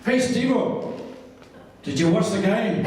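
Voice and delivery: chirpy mimicry of a mate calling; imitating Davey. Voicing Davey on the phone.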